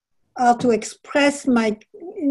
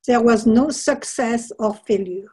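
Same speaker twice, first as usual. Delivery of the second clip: reading aloud. Acted. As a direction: read it like a reflective passage. Author reads a passage from her book.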